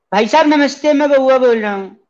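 put-on high, silly childlike prank voice; squeaky little-boy caller; put-on childish voice. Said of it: "with a different voice".

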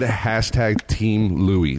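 drawn-out, slow quoting; slow mock quote. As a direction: stretch each word out slowly. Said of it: "Roberto said".

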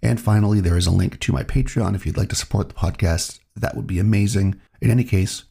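ordinary delivery

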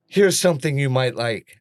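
pointed, inflected assistant reply; sassy inflection. Retold or imitated. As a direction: offer it with attitude in every word. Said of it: "with the inflection still".

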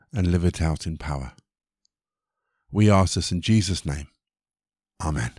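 low-key, measured prayer with pauses. Real, not acted. Reader asking God's help before the reading, prayer.

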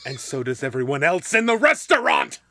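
projected, building in volume to the end; acted outburst. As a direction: announce it so the whole room hears. Acted scene, louder retake.

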